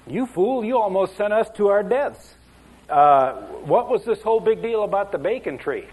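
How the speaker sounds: mock outrage. Angry wagon master confronts cowboy.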